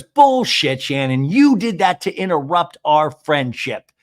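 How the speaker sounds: imitated outburst, hammering the accusation; angry accusation. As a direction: act out a heated accusation. Retold accusation in quarrel.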